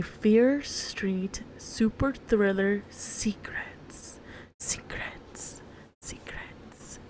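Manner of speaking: eerie whisper fading away; spooky whisper. Acted. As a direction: whisper it like a ghost story.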